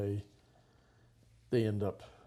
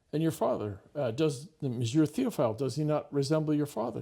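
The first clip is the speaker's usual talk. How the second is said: much higher, sugary hostess tone; sweet hostess voice; 5 semitones higher, 6 dB louder than usual. Retold or imitated. Madame Chameau presenting the boy to his disguised parents, sugary and high. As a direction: coax the boy sweetly in front of guests.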